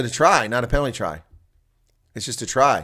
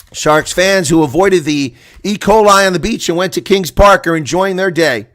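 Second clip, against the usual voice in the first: raised, emphatic delivery; loud commentary; 6 semitones higher, 9 dB louder than usual. Real, not acted. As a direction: project it over the crowd. Loud crowd line.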